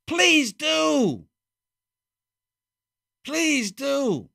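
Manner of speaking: high, sarcastic mock invitation; mock sarcastic please. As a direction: sneer it as fake permission. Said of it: "But they go".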